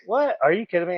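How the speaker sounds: high-pitched imitation of astonishment; retold disbelief. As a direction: start very high, then come down incredulous. Retelling a stunned reply.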